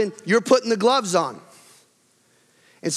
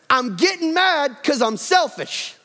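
raised, slow mock confession; demo confession line; 6 semitones higher, slower than usual. Shown as a demonstration. Preacher acting a husband confessing to his wife, higher and slower. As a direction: act out the honest admission, drawn out. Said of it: "You need to look at him and go".

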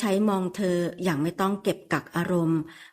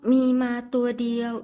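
shy woman's reply; 4 semitones higher than usual. Acted. Shy woman explains herself.

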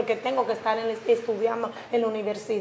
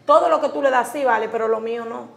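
louder, heated complaint to her sister; indignant protest; 6 dB louder than usual. Acted. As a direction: push back hard, voice raised. Sister argues against sister. (hermana se queja alzando la voz, indignada)

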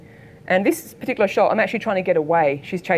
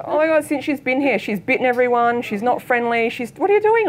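alarmed warning; 5 semitones higher than usual. Retold or imitated. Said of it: "She goes".

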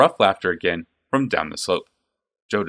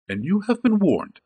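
firm warning; 12 semitones higher than usual. A narrator's reading. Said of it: "said Vaska simply".

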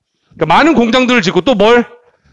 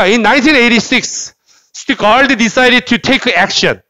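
slow, careful read-aloud for repetition; measured teacher's model sentence; 3 semitones higher, much slower than usual. Shown as a demonstration. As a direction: read it out slowly, phrase by phrase. Models sentence for students to repeat.

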